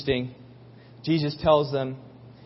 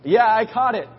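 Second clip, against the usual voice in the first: put-on little boy; 6 semitones higher, 5 dB louder than usual. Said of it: "being a little boy".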